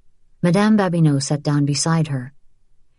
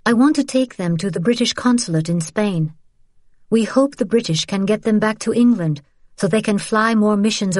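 put-on higher-pitched young heroine stating her mission; Isabel, earnest appeal; 4 semitones higher than usual. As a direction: lay out the dangerous plan earnestly.

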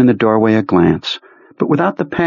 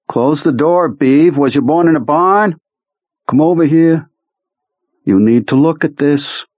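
Beaver's voice, pitched up; lisping buck-toothed beaver; 7 semitones higher than usual. A narrator's reading. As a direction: voice Beaver, raised and urgent. Beaver calling Jonesy to door.

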